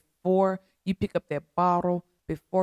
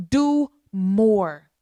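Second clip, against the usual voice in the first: louder, rising preacher's call; fervent exhortation; 6 dB louder than usual. Real, not acted. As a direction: push them to act, with full force.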